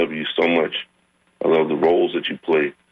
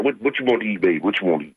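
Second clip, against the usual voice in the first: doting mother; 4 semitones higher, faster than usual. Retold or imitated. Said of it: "That's what a mother says".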